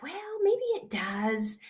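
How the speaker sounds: high, hesitant going-along voice; doubtful customer. Acted. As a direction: waver up high, half convincing yourself. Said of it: "And you're like".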